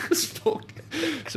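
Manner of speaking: squeaky high laughing break. Real, not acted. Laughing at cake request.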